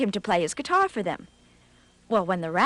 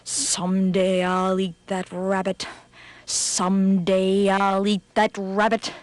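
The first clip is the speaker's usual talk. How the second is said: tiger swearing revenge to himself; vowing tiger. Acted. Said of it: "he swore again and again".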